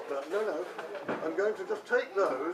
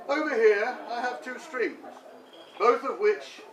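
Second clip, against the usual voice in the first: comic verse recital. Pretend. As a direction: declaim it like a homemade poem. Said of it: "I feel the urge of poetry".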